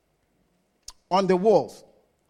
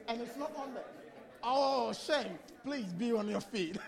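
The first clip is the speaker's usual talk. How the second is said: softer, laughing request; 14 dB quieter than usual. Real, not acted. Pastor laughing that the man's flag is missing. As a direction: let the laugh carry the words.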